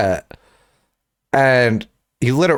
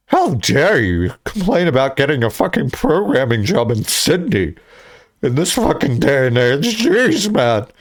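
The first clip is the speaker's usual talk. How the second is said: indignant rant, acted out; mock outrage. Ranting at a uni friend about a job, mock outrage. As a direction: scold them in exaggerated outrage.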